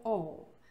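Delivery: "all" for "or", R dropped, long vowel; British "or". Shown as a demonstration. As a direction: drop the R, stretch the vowel. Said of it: "os britânicos".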